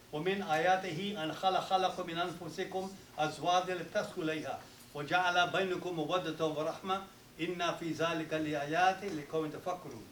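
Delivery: rapid, even Arabic recitation in one breath; Quran recitation. Real, not acted. Imam at a wedding reciting the marriage verse, fast recitation.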